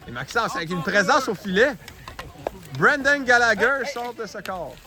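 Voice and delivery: lively hockey call; play-by-play. Real, not acted.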